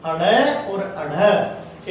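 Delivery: अड़ and अढ़ said very slowly, the flapped ड़ and the breathy ढ़ kept apart; slow clear sounds. Shown as a demonstration. Teacher names the two flapped sounds slowly to students. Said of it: "कितने हैं हिंदी में".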